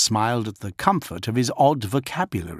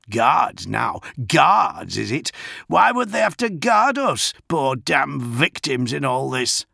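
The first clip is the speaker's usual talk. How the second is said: lightly voiced indignant old man; 4 semitones higher than usual. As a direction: protest like a cranky old man.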